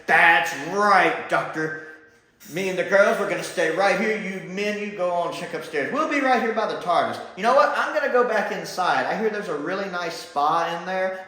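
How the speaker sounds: lightly voiced high girly companion, breezy; pretend self as one of the women. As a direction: playfully mimic a carefree companion. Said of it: "that would be Prowl at the tardis".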